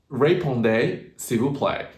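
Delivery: French read with English sounds; tentative French in an English accent. Shown as a demonstration. Learner sounding out French from an internet spelling, English-accented. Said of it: "The French actually don't sound like that".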